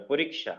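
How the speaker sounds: পরীক্ষা said cleanly, with a crisp ksha; model pronunciation. Shown as a demonstration. Teacher repeats the word for the class, clearly. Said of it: "উচ্চারণটা এভাবে করতে হবে".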